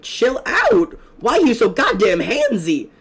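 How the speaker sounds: loud, high outraged yell; indignant yell. Real, not acted. At the clingy villager kid, an outraged loud yell. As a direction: yell at him to back off.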